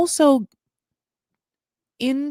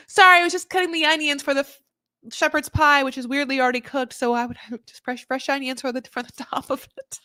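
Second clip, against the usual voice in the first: high fake excuse; 4 semitones higher than usual. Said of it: "I almost wanted her to be like".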